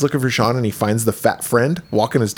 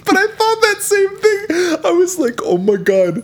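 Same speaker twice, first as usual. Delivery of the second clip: high-pitched disgust. Real, not acted. Viewer recalls the gross prop, squealed disgust. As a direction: squeal of mock horror. Reacting to gross haunted house.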